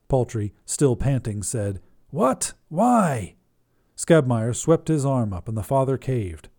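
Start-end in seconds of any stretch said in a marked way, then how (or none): 2.1-3.4 startled. Acted. Panting priest startled.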